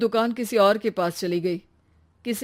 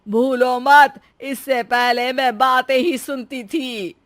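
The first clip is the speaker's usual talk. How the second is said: mock scolding; 4 semitones higher, 6 dB louder, slower than usual. Mother-in-law scolds playfully.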